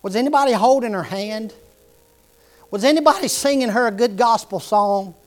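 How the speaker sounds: tearful pleading. Retold or imitated. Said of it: "through tears and sobbing".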